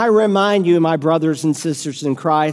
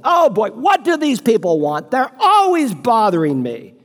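higher, put-upon complaint; annoyed homeowner; 4 semitones higher than usual. Retold or imitated. Preacher voicing the homeowner bothered again, exasperated. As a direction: grumble like a man disturbed again. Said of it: "the doorbell rings again".

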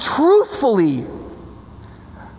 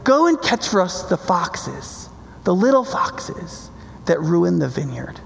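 slow, understated aside; throwaway line; 4 semitones lower, 3 dB quieter, slower than usual. Retold or imitated. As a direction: let it drop casually, unhurried. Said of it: "almost feels like a throwaway line".

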